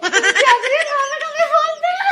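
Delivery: words bubbling through giggles; can't stop laughing while asking why; laughing helplessly. Acted. Daughter-in-law and mother-in-law laughing uncontrollably.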